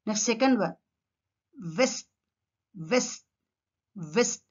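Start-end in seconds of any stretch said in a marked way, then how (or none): 1.8-4.4 "వెస్ట్" as vest, teeth on bottom lip; V sound. Shown as a demonstration. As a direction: start "వెస్ట్" with V. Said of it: "Teeth touch the bottom lip".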